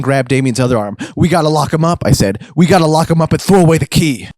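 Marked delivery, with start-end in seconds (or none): 1.2-2.0 raised, urgent call to action; rally the others, pitched up; frantic urgency. Acted. Friend grabs Damien's other arm, frantic. Narrator joins the frantic struggle. 2.5-4.3 raised, urgent call to action; rally the others, pitched up; frantic urgency. Acted. Friend grabs Damien's other arm, frantic. Narrator joins the frantic struggle.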